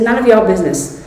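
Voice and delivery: retold curt rebuff, mildly sharp; sharp and short. Woman guarding her book from her partner, sharp and short. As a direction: shut the question down briskly. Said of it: "very sharp, very short".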